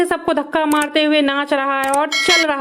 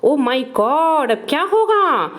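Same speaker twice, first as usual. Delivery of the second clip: mock dismay. Mock alarm about baby toy.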